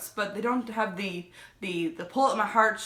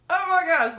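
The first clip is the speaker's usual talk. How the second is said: retold gasp; 9 semitones higher, 5 dB louder than usual. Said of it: "I'm just like".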